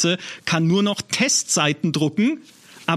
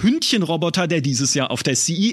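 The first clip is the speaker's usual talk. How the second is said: podcast intro read; 3 semitones higher than usual. Acted. Scripted intro read over music.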